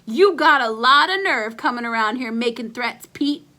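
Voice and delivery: hollered. Acted. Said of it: "I hollered".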